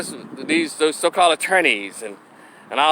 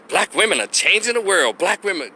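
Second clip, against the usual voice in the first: mocking feminist slogan; 3 semitones higher than usual. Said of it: "When I hear that foolishness".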